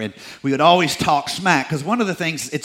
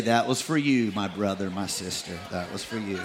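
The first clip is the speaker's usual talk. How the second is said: gentle blessing to a neighbor; 8 semitones lower, 10 dB quieter than usual. Shown as a demonstration. Congregation told to say it to neighbor.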